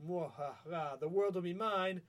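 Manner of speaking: lightly voiced evil villain gloat; a hint of a gloating villain; mad scientist. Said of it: "where he's like".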